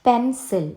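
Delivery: പെൻസിൽ in two clear beats, "pen, sil"; split into syllables. Shown as a demonstration. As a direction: mark both syllables of പെൻസിൽ. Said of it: "ടു syllables". (പെൻസിൽ രണ്ട് സിലബിളായി, "പെൻ, സിൽ")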